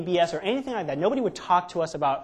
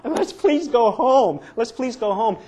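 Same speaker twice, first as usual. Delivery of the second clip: much higher, louder, slow whiny begging; pleading to go home; 7 semitones higher, 8 dB louder, slower than usual. Retold or imitated. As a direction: drag it out like a homesick kid. Scared group begging to leave.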